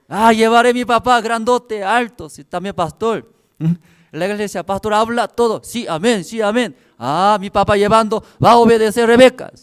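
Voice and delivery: put-on loud, high, excited child boasting about daddy; hopeful daughter. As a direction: imitate a little girl's triumphant hope. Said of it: "Ahí vino con mucha esperanza".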